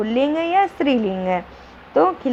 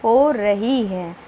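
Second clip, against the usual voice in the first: slow example sentence; slower than usual. Shown as a demonstration. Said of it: "इससे हमें पता चल रहा है ना".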